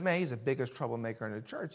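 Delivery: retold grumble. Retold preacher complains about man.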